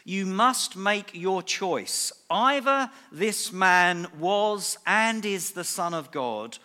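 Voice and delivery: measured, grave recitation rising in pitch; solemn quote. Retold or imitated. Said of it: "one of the quotes that he made about Jesus was this".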